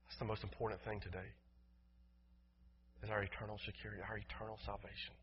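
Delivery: soft, solemn pulpit plea; hushed, earnest appeal to the congregation; prayerful appeal. Real, not acted. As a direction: let the voice sink, with long pauses.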